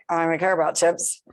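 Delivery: put-on slurred, lazy drunken-sounding words; slurring voice. Shown as a demonstration. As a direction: let the words run together and slur. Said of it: "in a slurring voice".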